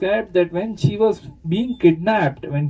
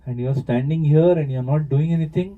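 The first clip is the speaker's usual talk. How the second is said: angry accusation; much faster than usual. Retold or imitated. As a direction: rattle off the accusations in mock fury. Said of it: "she gets very angry and she starts accusing".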